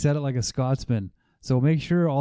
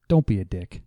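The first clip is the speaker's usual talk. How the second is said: mock wise quote; 6 semitones lower than usual. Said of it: "The great Buddha once said".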